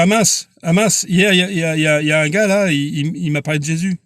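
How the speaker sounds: hammed-up too-late regret; mock dismay. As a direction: play the sinner who suddenly realizes too late. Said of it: "je dis ça comme ça, c'est une façon de parler".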